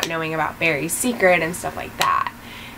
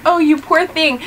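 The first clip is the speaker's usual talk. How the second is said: much higher, sing-song imitation of Iris; a hammed-up pitying Iris; mock pity; 10 semitones higher than usual. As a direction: coo it in a mock-sympathetic voice. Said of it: "she's like".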